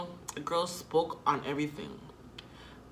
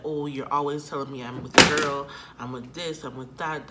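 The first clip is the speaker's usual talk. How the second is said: louder, fed-up mock whine; mock complaint; 7 dB louder than usual. Imitating boyfriend's fed-up complaint, louder. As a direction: throw his complaint back, loud and fed up. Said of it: "That's why he was like that".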